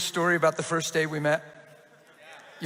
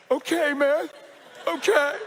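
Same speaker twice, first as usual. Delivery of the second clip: overwhelmed okay; 7 semitones higher, slower than usual. Retold or imitated. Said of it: "And he went".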